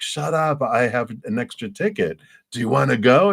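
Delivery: high, eager pretend invite; acted excited invitation. Stranger invites fellow potter to exhibit, playfully excited. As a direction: gush it as the thrilled new acquaintance.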